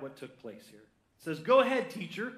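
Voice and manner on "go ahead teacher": high, loud burst of eagerness; eager. Acted. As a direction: jump in keenly, pitched well up. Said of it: "Simon replied eagerly. I added the eagerly".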